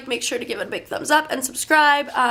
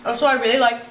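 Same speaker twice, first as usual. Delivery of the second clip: talking with her mouth full; words around a bite of brownie; 3 dB louder, faster than usual. Real, not acted. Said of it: "I'm probably in my mouth full".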